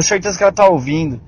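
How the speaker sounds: dropping to a hush. Real, not acted. Girl in bathroom may hear.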